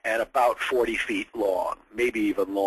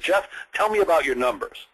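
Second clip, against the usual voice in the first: quoting the boss; 5 semitones higher than usual. Retold or imitated. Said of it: "the exact words he said".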